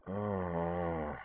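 soft, drawn-out sleepy groan. A narrator's reading. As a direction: groan softly on waking. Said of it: "she groaned".

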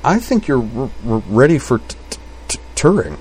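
stuttered R on "ready", T on "Turing"; halting, repeated consonants; stammering. A narrator's reading. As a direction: stick on the first sounds of "ready" and "Turing". Kate stammers in story.

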